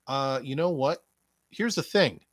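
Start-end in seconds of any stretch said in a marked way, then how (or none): none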